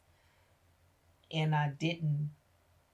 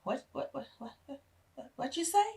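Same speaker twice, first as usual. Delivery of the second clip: stunned dad; 10 semitones higher than usual. Retold or imitated. Dad reacts in shock.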